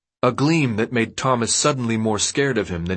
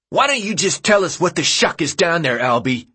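raised, higher voice; calling out; 7 semitones higher, 4 dB louder than usual. A narrator's reading. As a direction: call out over the crowd. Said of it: "Gally called out".

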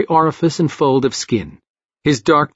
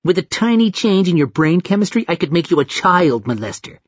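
put-on toddler voice; 4 semitones higher than usual. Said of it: "It sounded like a toddler".

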